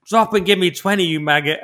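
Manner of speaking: loud and high, barking the order; barking drill sergeant. Pretend. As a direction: bark it like a drill sergeant at a recruit. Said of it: "a drill sergeant saying".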